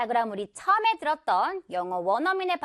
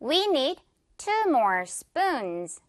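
slow model drill; much slower than usual. Shown as a demonstration. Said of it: "갑니다".

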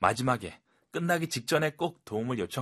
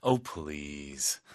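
low, drawn-out scoffing "Oh, please"; sarcastic oh please; 7 semitones lower than usual. Shown as a demonstration. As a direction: roll your eyes at it. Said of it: "비꼬는 듯한 반응". (낮고 비꼬는 "Oh, please")

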